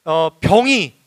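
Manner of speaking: high, emphatic sermon delivery; impassioned preaching. Real, not acted. Preacher concluding to beloved congregation, impassioned exhortation. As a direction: proclaim it with conviction to the congregation. Preaching goes on at raised pitch.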